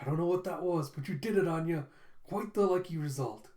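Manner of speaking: mildly excited retelling; a touch of lifted, lively glee. Retold or imitated. Lloyd delighted that Anya's plan worked, mildly excited. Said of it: "Lloyd's all excited".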